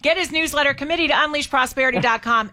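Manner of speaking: upbeat host calling out the contest winner; radio host announcing the ticket winner to listeners, upbeat announcer read; radio giveaway announcer. Acted. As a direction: sell the prize like a radio host. Reads phone number and plugs.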